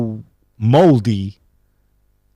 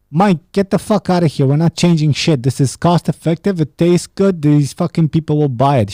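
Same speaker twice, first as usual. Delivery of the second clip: higher-pitched exasperated boss rant; mock irate boss; 4 semitones higher than usual. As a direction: shoot down a complaining employee, half in earnest. Acts out boss rejecting staff complaint.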